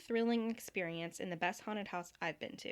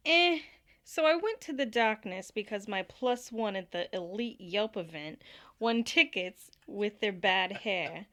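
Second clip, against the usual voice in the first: put-on Jersey accent; 5 dB louder than usual. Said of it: "Can you do this in a Jersey accent?".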